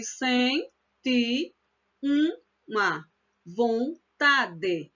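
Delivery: senti with the stress on ti, then a very slow uma vontade; teacher reading the verse slowly; slow demo. Shown as a demonstration. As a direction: keep the stressed ti apart from uma. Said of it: "o ti é a sílaba tônica".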